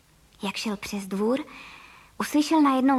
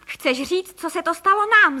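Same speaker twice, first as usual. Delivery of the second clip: rising to a loud, higher outcry; exclaiming husband; 5 semitones higher, 6 dB louder than usual. A narrator's reading. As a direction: throw the question back in alarm. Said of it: "zvolal pan Frejka". (zděšené zvolání, stoupá do hlasitého)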